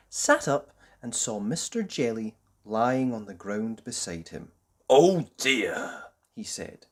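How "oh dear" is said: lightly voiced gentle old tramp; soothing, concerned; kindly tramp. Tramp finding Mister Jelly fainted, gently concerned. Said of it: "he was a kindly tramp".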